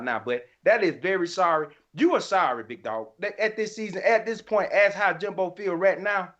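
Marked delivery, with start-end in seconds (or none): none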